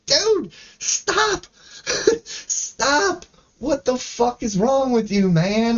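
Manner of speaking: high laughing plea; laughing, pleading. Real, not acted. Begging a cringey guy to stop, laughing high. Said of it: "I'm just like".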